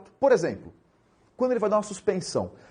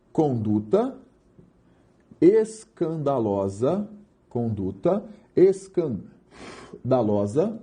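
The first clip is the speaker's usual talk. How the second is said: very slow, syllables stretched with rising endings; drawn-out key term; 4 semitones lower, much slower than usual. Shown as a demonstration. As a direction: draw out "escandalosa" with long pauses. Spelling out the key legal term. (termo arrastado, bem devagar)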